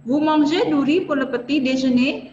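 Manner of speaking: careful, slightly slowed question; clear French model question. Shown as a demonstration. Teacher asks the class a sample question, clear and careful. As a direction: ask it like a teacher quizzing the class. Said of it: "misalnya saya tanya begini".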